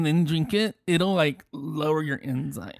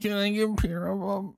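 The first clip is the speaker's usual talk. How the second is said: leering creep asking for more; creepy guy voice; 5 semitones higher than usual. Retold or imitated. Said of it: "'cause that's how he was talking".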